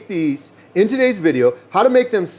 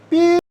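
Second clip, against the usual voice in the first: high beep sound; 12 semitones higher than usual. Pretend. Mock censor beep.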